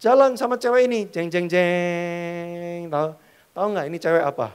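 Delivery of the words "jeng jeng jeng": drawn-out suspense sting; slow dramatic jeng jeng. Pretend. Preacher adding a dramatic suspense sound, very slow. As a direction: stretch it like a drum reveal.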